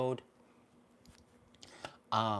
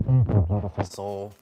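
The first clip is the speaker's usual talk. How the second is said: loud warm thanks; 11 dB louder than usual. Real, not acted. Thanking a viewer on stream.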